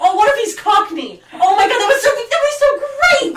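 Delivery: loud, laughing excitement; excited. Real, not acted. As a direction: gush about it. Excited by Cockney idea.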